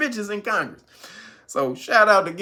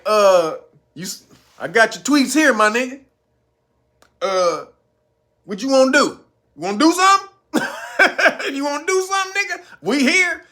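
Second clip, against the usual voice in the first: confrontational challenge; 4 semitones higher than usual. Retold or imitated. Wayne Mullen daring the Teamster to fight, mock taunting. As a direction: square up and dare him. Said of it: "Wayne Mullen was like".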